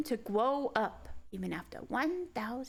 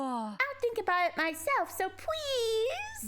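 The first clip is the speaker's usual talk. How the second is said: high, whiny cutesy begging; 8 semitones higher than usual. Acted. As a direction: wheedle in a high cute voice. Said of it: "two minutes of Wu voice".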